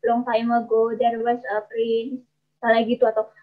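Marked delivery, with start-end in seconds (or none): 0.0-2.2 "long time ago there was a prince" in a monotone, softer; flat intonation. Shown as a demonstration. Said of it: "nggak ada nadanya atau datar".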